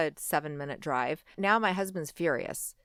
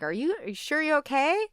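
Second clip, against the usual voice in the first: high, fussing mother's voice; lightly mocking a worried mother; worried mom; 8 semitones higher than usual. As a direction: imitate the concerned mom, pitched way up. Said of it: "the mom's like".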